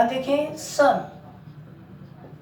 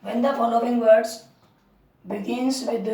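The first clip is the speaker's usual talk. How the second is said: slow, deliberate dictation; patient repeated dictation; much slower than usual. Shown as a demonstration. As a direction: repeat it slowly for writing down. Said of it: "dictating rule to write".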